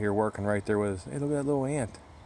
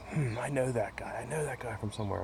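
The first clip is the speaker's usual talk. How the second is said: muttering to himself; 5 dB quieter than usual. Retold or imitated. Thinking to himself, recognizing Brian.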